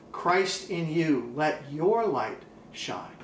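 slow, drawn-out blessing, each word weighted; slow solemn proclamation. Acted. Pastor slowly blessing his church: slow, solemn. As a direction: pronounce it like a benediction over the church.

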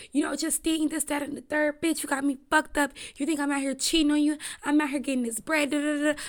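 imitating a guy flipping it on her; going off. Cheating boyfriend fires back at Justine, in a mock indignant rant. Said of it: "Just going off".

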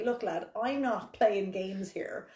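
put-on hustler London accent, slow and laughing; grimy London accent. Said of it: "I don't know why I'm doing that accent".

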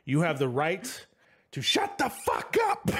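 slow, then jumps way up on the punchline; Budansky mocking the arrest warning; cop's snappy arrest line. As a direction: deliver it like a smug cop arresting Frank. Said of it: "and just goes".

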